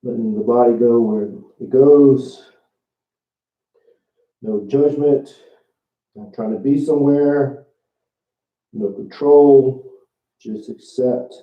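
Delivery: muffled, speaking into the floor; face down on the floor. Real, not acted. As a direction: talk with your face to the ground. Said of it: "I know I'm talking into the floor".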